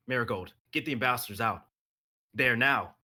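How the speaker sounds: loud urgent order over comms; urgent command to get them out; urgent shout. Acted.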